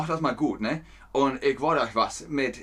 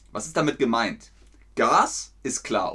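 ordinary talk

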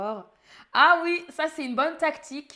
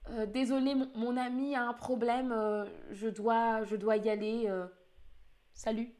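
fake phone call. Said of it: "faire semblant que ton téléphone sonne".

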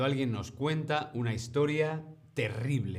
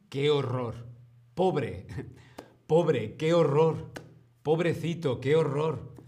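dismayed sympathy; 3 semitones higher, 4 dB louder than usual. Shown as a demonstration. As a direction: react as if horrified by the story. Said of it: "podemos reaccionar diciendo".

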